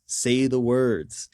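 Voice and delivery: very slow, drawn-out puppeteer's command; Jensen. Retold or imitated. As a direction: stretch each word like a mock puppet master insisting. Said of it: "Jensen has the mouth puppet and he's like".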